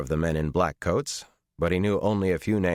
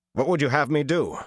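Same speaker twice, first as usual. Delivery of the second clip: demanding; 9 semitones higher than usual. A narrator's reading. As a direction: throw the question back at Perrin. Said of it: "Rand demanded".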